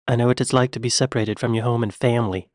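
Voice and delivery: quick British imitation, flatly American "family"; Kevin Costner. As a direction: race through, dropping the accent on "family". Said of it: "he dropped the accent on the word family".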